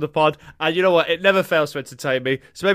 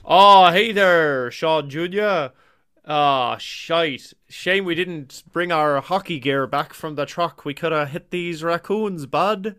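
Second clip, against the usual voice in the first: put-on Canadian dad accent; slower than usual. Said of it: "Johnny's attempt at a Canadian accent".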